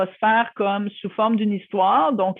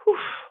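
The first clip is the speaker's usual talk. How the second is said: relieved exhale. Shown as a demonstration. Demonstrates letting the tension go.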